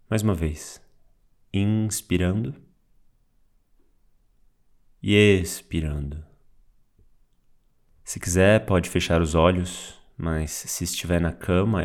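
calm meditation guide with long pauses; unhurried, guiding words, spaced out for breathing; guided meditation. Real, not acted. Teacher guides listener through waking-up body awareness, guided meditation. Leads a guided mindfulness practice.

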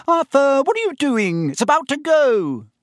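high, urgent shout to hurry; wife's high-pitched call over a distance. A narrator's reading. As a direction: holler at your husband to hurry up. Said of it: "called Missus Weasley".

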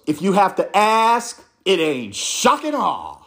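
slow, unbothered, cool-cat delivery; cool jazz reply. Retold or imitated. Official coolly brushing off the reporter, slow and laid-back. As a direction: drawl it out like a jazz musician shrugging off a question. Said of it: "she did a jazz musician".

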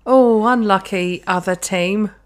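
slow, drawn-out mock sympathy; mock cheerleader. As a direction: commiserate like a clueless cheerleader. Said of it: "I'm the best cheerleader".

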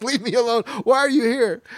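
high, loud, exasperated yell; imitating yelling at an unwanted visitor; retold angry yell. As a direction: shoo the man away. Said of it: "It's like".

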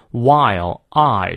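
"while" slowly, opening the "I" glide fully; full diphthong. Shown as a demonstration. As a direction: stretch the two-part vowel in "while". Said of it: "双音念到位". (慢读，把"while"的双元音念到位)

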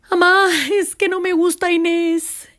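imitando a un niño quejoso, agudo; niño llorón imitado. Retold or imitated. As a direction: queja infantil fingida, con voz más alta. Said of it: "iba llorando. Regresaba de la escuela y me decía". (vocecita de hijo que llega lloriqueando)

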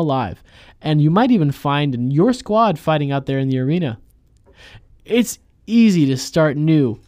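upbeat sponsor read voice. Pretend. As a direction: read it like a YouTube ad. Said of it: "This is our second ad".

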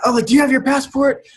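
high, fast fretting mom voice; panicked mom. Retold or imitated. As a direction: rattle it off like a frazzled mother. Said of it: "she's, like, freaking out".

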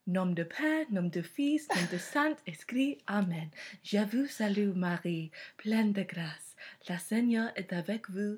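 reciting the Hail Mary in a French accent; French prayer recital. Shown as a demonstration. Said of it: "I can say the Hail Mary in French and German".

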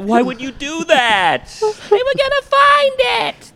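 high, loud movie-quote yell; yelling the Karen line. Retold or imitated. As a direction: belt it out like the film scene. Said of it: "we like to yell the Karen lines".

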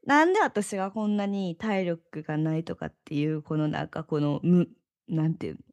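groggy hungover voice. Real, not acted. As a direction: talk like you're hungover and foggy. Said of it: "ちょっと二日酔いやからさ". (二日酔いでぼんやりした声)

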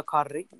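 "Cardi" with a rolled R. Shown as a demonstration. Showing her how to say the name, rolled R. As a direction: roll the R in "Cardi". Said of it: "you can roll the R's in my name".

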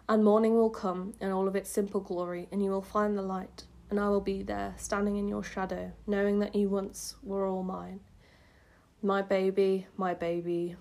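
even, tender lullaby reading; poem reading. Acted. Reads a lullaby-like poem aloud.

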